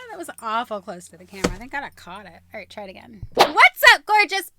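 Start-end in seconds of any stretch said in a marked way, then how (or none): 3.4-4.5 loud, high bubbly greeting; vlog greeting. Acted. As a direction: hype up the viewers.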